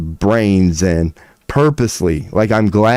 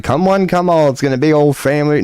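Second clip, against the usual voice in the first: lightly voiced coaxing mouse, higher and quicker; a hint of an eager little mouse, higher and quick; mouse talking; 6 semitones higher than usual. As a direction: play the mouse coaxing him to let it stay, a bit higher. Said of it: "even that mouse was like".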